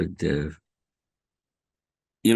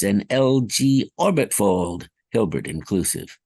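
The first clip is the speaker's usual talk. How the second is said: bobbled take. Acted. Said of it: "I kind of bobbled that one".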